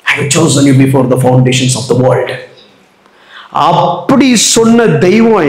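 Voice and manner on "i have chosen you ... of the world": slow solemn quote. Shown as a demonstration. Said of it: "slow scripture quote".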